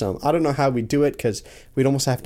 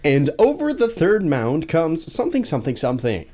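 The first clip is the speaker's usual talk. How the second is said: radio announcer voice; 3 semitones higher than usual. Pretend. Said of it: "my radio announcer voice".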